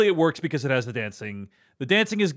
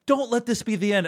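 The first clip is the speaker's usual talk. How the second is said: mock dramatic plea, pitched up; imitated confrontation; 6 semitones higher than usual. Movie character confronts someone in the rain, mock pleading. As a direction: act out a movie hero's higher-pitched plea. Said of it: "confronts me".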